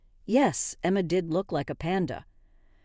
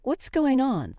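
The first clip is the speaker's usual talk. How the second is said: mildly flustered, pitch climbing on the second question; lightly voiced, rattled questioning; 5 semitones higher than usual. A narrator's reading. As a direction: ask with a touch of fluster. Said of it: "Emma started to get flustered".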